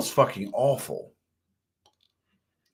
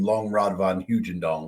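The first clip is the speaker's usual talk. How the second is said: slow, low, laughing it out; 5 semitones lower than usual. Real, not acted. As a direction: chuckle the silly name. Laughing at joke name.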